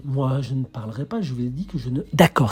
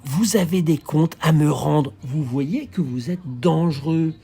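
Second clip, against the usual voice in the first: raised voice; 3 semitones higher, 4 dB louder, slower than usual. Acted. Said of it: "J'élève seulement la voix".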